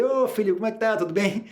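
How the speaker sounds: put-on high, loving mother greeting her found child; tender mother. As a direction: sound relieved and caring, like a hugging mom. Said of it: "em vez de abraçar ele". (mãe carinhosa, aliviada, voz bem aguda)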